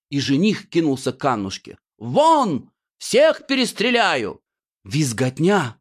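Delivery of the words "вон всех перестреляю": high, hammed-up yell; high overdone stage-villain shout; villain's threat. The groom threatens everyone.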